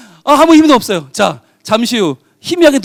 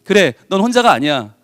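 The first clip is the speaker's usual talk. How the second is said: lower, calm, reassuring words from above; gentle voice of the Lord; 4 semitones lower than usual. Acted. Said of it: "우리 주님 말씀하시죠".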